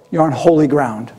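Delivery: low, solemn divine voice; voice Moses hears. Retold or imitated. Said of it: "The first thing he hears".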